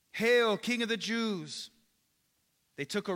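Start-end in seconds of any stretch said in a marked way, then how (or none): 0.1-1.7 higher, slow, drawn-out mock salute; mock hailing. Soldiers to scourged Jesus, mock hailing. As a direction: stretch out a taunting royal greeting. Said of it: "mocked him".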